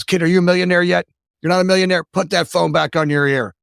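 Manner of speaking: mock the grumpy boss pushing the kid.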